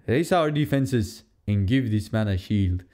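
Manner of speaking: lightly imitated Wakandan accent, slow; attempted T'Challa accent. Fan quoting the king's order, attempted Wakandan accent. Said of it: "I can't even do it. The accent".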